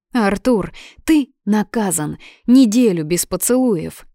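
mock scolding. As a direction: lay down a playful punishment. Playful scolding punishment. (шутливый строгий выговор)

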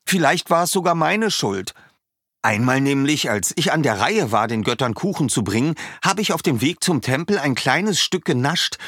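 put-on chatty young villager explaining his village; Weizi the villager. A narrator's reading. Weizi confesses his guilt.

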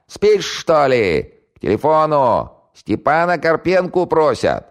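high, loud, slow hollering; yelling at full throat. Acted. Housewife yells for Stepan to take the call, high and loud. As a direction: holler through the flat at full volume. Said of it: "заорала во всё горло".

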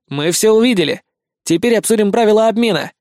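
lightly voiced boy proposing terms; a hint of a bold boy; businesslike boy. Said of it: "предложил Никитка". (деловито)

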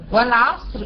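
والعصر ending in a thick R; heavy ra at stop. Shown as a demonstration. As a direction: close والعصر on a heavy vowelless R. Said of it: "عند الوقف التفخيم".

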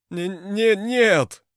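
screeching high and loud in panic; shrill squeal of terror. A narrator's reading. Stimid squeals in terror as Varangians grab him. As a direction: squeal like a man facing torture. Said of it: "заверещал Рыжий".

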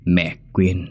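a hint of a menacing doll, words ground out; giọng búp bê gằn từng chữ đe dọa. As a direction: threaten her word by word, half whispered. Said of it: "gằn lên từng chữ".

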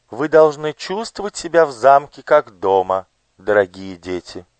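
high, lilting and tender welcome; sweetly singsong. Acted. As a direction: coo it warmly to the children. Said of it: "певуче и ласково проговорила". (певуче и ласково)

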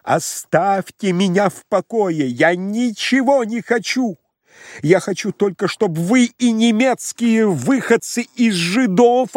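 выше, громче, медленно; вне себя, срываясь; исступлённый крик. Acted. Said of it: "Лаевский, уже не помнивший". (Лаевский в исступлении кричит фон Корену)

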